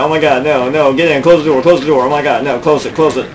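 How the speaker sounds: panicked, high and loud; frantic shouting as zombies pour in; terrified horror victim. Real, not acted. Zombies rush the open door.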